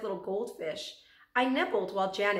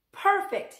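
much higher, louder delighted cry; excited cry; 11 semitones higher, 6 dB louder than usual. A narrator's reading. President lifting Fudge up, excited cry. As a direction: exclaim in delight. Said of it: "he cried".

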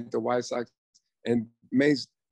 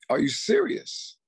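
high, drawn-out disbelieving question; stretched-out astonished question, pitched way up; incredulous. Retold or imitated. Retells disbelief at daughter's big news.

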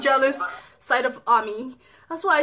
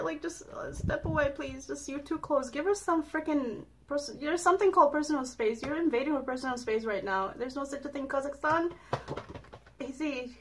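quiet, half-under-breath pleading; soft grumbling plea; muttered pleading; 7 dB quieter than usual. Real, not acted. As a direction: mutter at the screen, begging. Muttering at screen couple.

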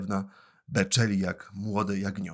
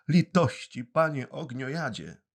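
high, tearful plea; pleading; 6 semitones higher than usual. Acted. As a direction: beg for mercy. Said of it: "zaczął mówić błagalnym tonem".

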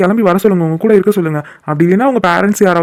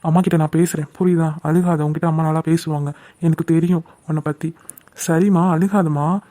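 soft comforting; 4 dB quieter than usual. Acted. Husband comforts crying wife.

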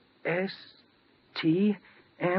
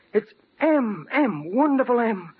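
tearful joy; 7 semitones higher, slower than usual. Acted. Paralysed man decoding a letter.

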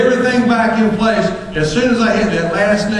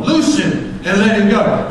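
slowed refrain; 3 semitones higher, slower than usual. Shown as a demonstration. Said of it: "repeated refrain".

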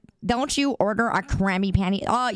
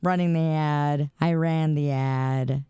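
deep mock voice; 7 semitones lower, slower than usual.

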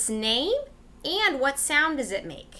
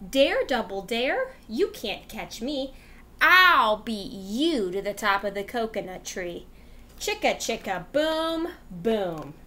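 put-on reading to children; slower than usual. Teacher reads picture book aloud.

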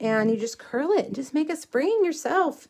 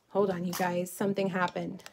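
normal talking voice

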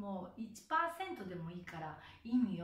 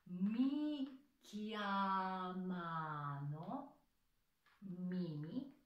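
slow model phrasing; much slower than usual. Shown as a demonstration. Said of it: "皆さんとちょっともう一回言ってみましょう。".

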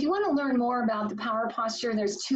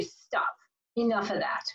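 calm self-talk. Shown as a demonstration. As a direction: gently settle your inner child. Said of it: "and you say".

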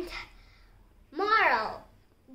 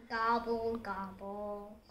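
low, soft grumbling gobble; turkey grumbling after being caught out; grumbled gobble; 6 semitones lower, 7 dB quieter than usual. A narrator's reading. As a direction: gobble it out under your breath, sulking. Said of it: "grumbled Turkey".

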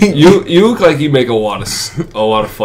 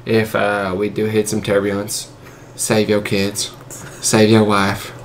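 pilot announcement. Pretend. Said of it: "do a pilot voice".

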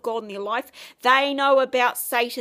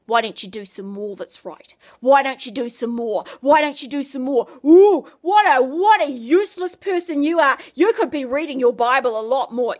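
nagging devil voice; 5 dB louder than usual. Retold or imitated. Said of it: "he will say to you".

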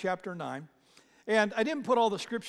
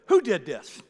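demanding; 8 dB louder than usual. Acted. Pharisees interrogating the blind man.

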